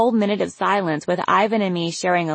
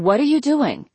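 curious mom; 8 semitones higher than usual. A narrator's reading. Mom voiced in story.

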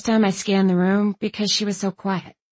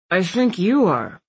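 talking through a mouthful of bacon; mouth full. Acted. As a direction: say it round a bite of food. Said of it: "his mouth full of bacon".

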